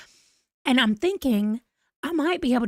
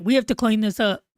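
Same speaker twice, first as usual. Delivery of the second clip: odd cousin voice. Retold or imitated. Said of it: "I just made her talk like that".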